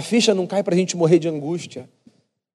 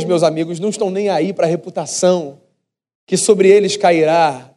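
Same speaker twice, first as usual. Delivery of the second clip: normal talking voice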